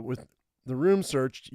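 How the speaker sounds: ordinary talk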